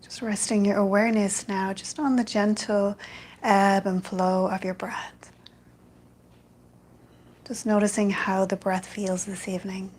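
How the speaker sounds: calm, even meditation guidance with long pauses; guided meditation. Real, not acted. Yoga teacher guiding an online evening class into loving kindness, meditative. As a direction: ease them into stillness, phrase by unhurried phrase.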